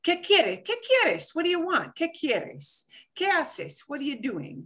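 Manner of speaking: high-pitched quick questioning with falling ends; acted example questions. Shown as a demonstration. Teacher acting out "what do you want" for student, lightly acted questioning.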